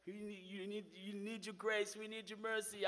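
soft, quietly pleading prayer; retold prayer. Praying to the Lord in the tent city, softly pleading. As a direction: murmur a plea for mercy under your breath. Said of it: "I was praying to the Lord".

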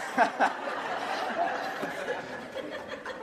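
airy helpless laughter; breathy laugh. Real, not acted. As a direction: laugh silently at the joke. Laughs at own joke.

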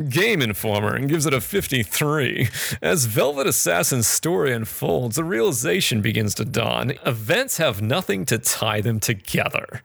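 snobby New Yorker critic voice; lofty critic in a New Yorker voice. Pretend. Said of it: "It's the New Yorker voice".

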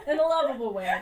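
laughing through the words; giggling agreement. Real, not acted. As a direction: chuckle it out. Laughing agreement about dumb Flash.

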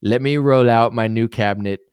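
showy politician savouring each compliment; Trump impression. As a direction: announce picks with hammed-up, swooning oohs. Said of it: "He's like".

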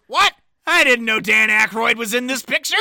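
quoting Swackhammer. Retold or imitated. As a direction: deliver the favorite line with relish. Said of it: "he stands up and goes".

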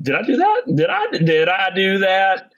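high nasal Urkel whine; squeaky did I do that; Urkel impression. Urkel catchphrase joke.

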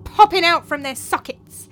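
slow, dramatic horror storytelling; Tranio spinning a ghost tale. Acted. Tranio describes a terrible apparition to his master, slow and dramatic. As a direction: draw out each dreadful detail.

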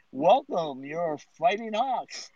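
drawn-out mock announcement; imitated rink announcer. Host imitates poor announcer introducing the team, lightly drawn-out announcement. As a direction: lightly put on an arena announcer. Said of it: "make an announcement to say".

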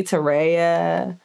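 "Tareya" said slowly, as others botch it; mispronounced name. Retold or imitated. Guest showing host how people mess up her name, mispronouncing "Tareya". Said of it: "people always mess up my name".

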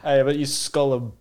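playful mock Australian; Australian accent. Host challenging the co-host to a drink, mock Australian accent. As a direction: put on a light Australian accent. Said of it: "why we're talking about Australia".

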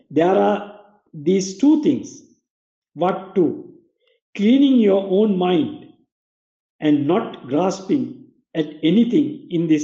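slow, careful read-aloud for repeating; slow school dictation. Shown as a demonstration. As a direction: read each phrase out for the class to follow. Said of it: "I will read it again".

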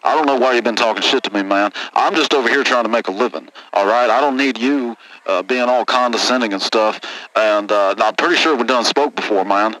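redneck caller. Acted. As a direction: grumble it like a sore trucker. Redneck confronts Linus on air.

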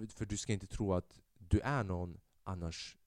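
low, quiet menace on the way out; a hint of the mob boss's parting shot; parting threat. Gang leader turning back to threaten the family, low and cold. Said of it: "när han säger".

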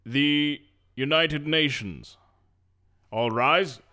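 slow, formal bailiff call; lightly voiced court clerk; court announcer.

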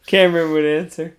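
flat monotone, no emotion at all; deadpan monotone. Retold or imitated. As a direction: say it dead flat like a bored friend. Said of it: "In the most deadpan, monotone voice ever".

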